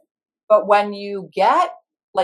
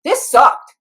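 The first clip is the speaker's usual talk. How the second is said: mock groan; 10 semitones higher, 8 dB louder than usual. Managers voiced complaining.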